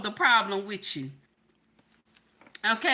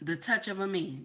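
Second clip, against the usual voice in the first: sultry low; 7 semitones lower, 8 dB quieter than usual. Real, not acted. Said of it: "did I say that right".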